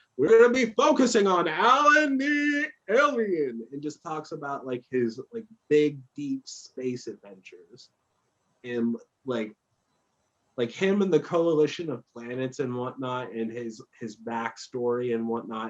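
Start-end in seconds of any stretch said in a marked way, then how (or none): 0.2-3.7 put-on very high, old-timey tv broadcast announcer voice. Describing how a show's voice sounds in their head: old-timey tv announcer voice. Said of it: "like T V announcer".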